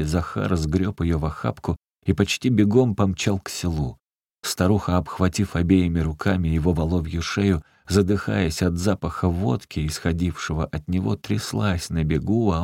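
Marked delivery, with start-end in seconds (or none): none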